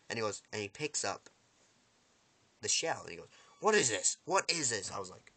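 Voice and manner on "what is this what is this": mock puzzlement. Villain examines the shell.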